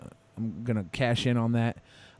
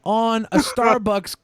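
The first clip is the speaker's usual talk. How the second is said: high, slow drawn-out impression; Monty; 7 semitones higher, slower than usual. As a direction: stretch every word up high, slowly. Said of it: "Monty's like".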